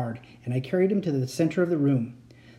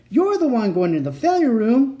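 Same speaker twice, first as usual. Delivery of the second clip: raised, angry retort; angry cry; 8 semitones higher, 5 dB louder than usual. A narrator's reading. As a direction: fire it back angrily. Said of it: "the second Uncle Victor cried".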